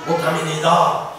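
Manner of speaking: measured, even scripture reading. A narrator's reading. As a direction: read the verse out steadily, drawing out the endings. (차분히 성경을 봉독하듯)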